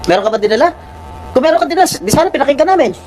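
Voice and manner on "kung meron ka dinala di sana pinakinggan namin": real exasperation, higher pitch; raised voice. Real, not acted. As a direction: scold with a raised voice. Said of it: "I'm sorry for, uh, raising my voice".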